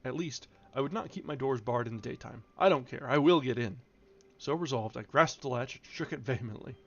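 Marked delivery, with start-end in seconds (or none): 0.0-3.8 indignant outburst. Acted. Lockwood's indignant inner outburst.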